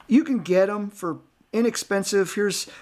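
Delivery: hiccuping between words; hiccups. Real, not acted. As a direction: talk through the hiccups. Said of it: "I got the hiccups".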